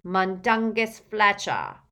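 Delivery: slow croaked confession; croaking elf. A narrator's reading. Elf names the thief under orders, croaking. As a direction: drag the name out in an elf's croak. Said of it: "croaked the elf".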